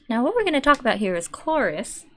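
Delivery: a hint of the possessive streamer voice; mild Pippa impression claiming her husband. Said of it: "My, my attempt at Pippa".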